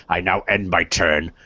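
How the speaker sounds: ordinary talk, nothing marked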